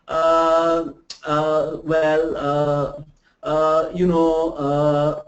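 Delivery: slow, hesitant filler words. Shown as a demonstration. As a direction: stall and hunt for words. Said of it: "what do we do?".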